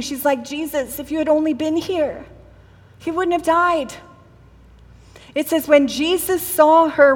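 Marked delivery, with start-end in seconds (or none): 0.4-3.9 acted weeping plea, hushed at the start; grieving. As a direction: mourn gently, without any accusation. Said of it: "It's like she's grieving".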